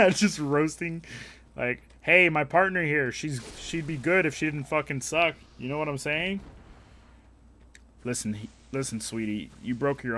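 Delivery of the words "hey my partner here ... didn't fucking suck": mock dance partner roast. Voicing a rude dance partner.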